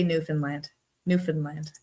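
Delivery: "Newfoundland" as NEW-fin-land, the middle a short "fin"; "Newfoundland" the island way, "fin" not "found"; local pronunciation. Shown as a demonstration. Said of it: "we say".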